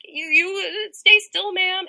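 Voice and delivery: passerby begging the hit woman to stay still; alarmed bystander. Retold or imitated. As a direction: plead like a worried passerby. Bystander voiced urging her.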